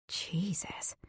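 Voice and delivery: whispered under the breath, barely audible; stunned whisper. Acted. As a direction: gasp the word out in a whisper. Stunned inner exclamation.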